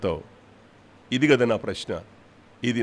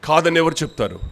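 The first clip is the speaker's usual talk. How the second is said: ordinary talk, nothing marked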